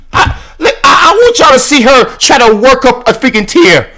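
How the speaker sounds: exasperated shout; worked-up outcry. Real, not acted. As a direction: yell it out in disbelief.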